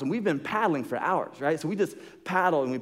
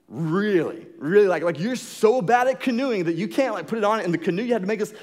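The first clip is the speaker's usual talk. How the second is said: sharp, much higher and louder angry yelling; yelling in anger; 7 semitones higher, 5 dB louder than usual. Retold or imitated. Friends yell at Kyle over the whistle, angry and loud. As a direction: let the pent-up rage pour out at him. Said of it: "we just start yelling at him".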